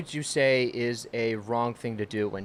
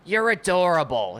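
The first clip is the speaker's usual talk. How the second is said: mock cooing; 6 semitones higher, 6 dB louder than usual. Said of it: "they'd always just immediately be like".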